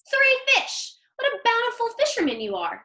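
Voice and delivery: high, bright burst of delight; excited praise. Acted. Mother praising her son's big catch, excited and high. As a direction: gush over the catch.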